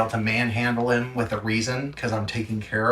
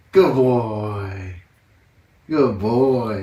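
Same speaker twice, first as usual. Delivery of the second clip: loud praise; 6 dB louder, much slower than usual. Real, not acted. Praising puppy loudly.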